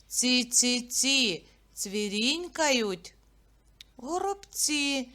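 nursery rhyme chant; sing-song rhyme. Shown as a demonstration. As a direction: chirp it out for kids. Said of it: "Я вам буду називати початок".

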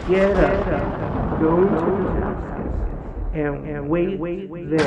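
a hint of a commanding heavenly voice; voice of Jesus. Jesus gives Saul commands.

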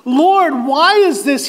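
mildly anguished plea, slowing on the repeat; crying out. Acted. Sufferer begs the Lord for relief, crying out. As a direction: beg for the blows to stop. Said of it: "he cried".

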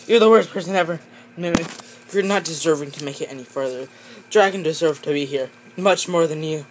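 angry telling-off. Acted. Characters keep arguing.

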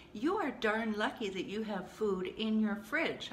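emphatic, half-playful dressing-down; self-scolding. Retold or imitated. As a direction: give yourself a talking-to. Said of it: "I gave myself shit".

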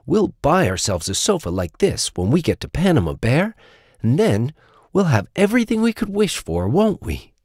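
high storybook tiger voice; high-pitched, eager little friend; dreamy, hopeful Little Tiger. Acted. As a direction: plan happily in a high little voice.

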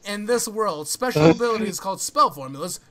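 hammed-up flamboyant summary reading. Reading spell lore to friends, mock flamboyant. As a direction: read it out with theatrical flourish. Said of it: "flamboyant voice".

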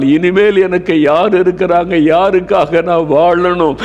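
lightly acted widow crying out; understated mournful wail; wailing lament. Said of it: "என்பதாக அழுது கொண்டு வந்திருப்பாள்".

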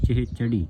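ਚਿਹ ਚੜੀ with weighted syllables; heavy word. Shown as a demonstration. Teacher models the word, ਚਿਹ ਚੜੀ said heavily. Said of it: "ਸ਼ਬਦ ਭਾਰਾ ਕਰਨਾ ਹੈ".

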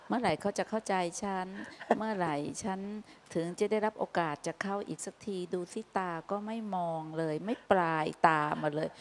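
quiet, play-acted wounded grumble; mock sulky complaint. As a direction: softly imitate a self-pitying sulker. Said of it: "ขี้น้อยใจก็ประมาณอาการว่า".

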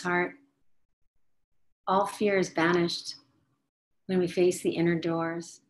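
dreamy spoken meditation; guided meditation. Acted.

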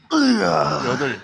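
long, loud strained count; real lifting strain; straining with effort. Real, not acted. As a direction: force the number out through a heavy rep. Counting reps under heavy effort.

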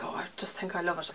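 hushed, dreamy whisper; awed whisper of delight; whispered swoon. Retold or imitated. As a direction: whisper it like falling in love with a scent. Retold inner reaction to perfume.

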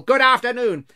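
high, very loud send-off; angry dismissal. A narrator's reading. Scrooge drowning out his nephew's greeting, angry shout. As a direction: shout him out of the room.

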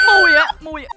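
calling out. Real, not acted. Player calling Mui for help, high call. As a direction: cry out the name high.

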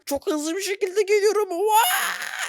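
high laughing build to a whoop; thrilled laughing cry; excited laughing whoop. Real, not acted. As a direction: whoop as you fly. Flying at speed, laughing.

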